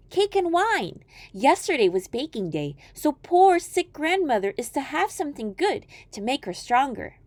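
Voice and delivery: put-on high, innocent girl reply; a trusting child thanking a stranger; little girl voice. Girl answers wolf.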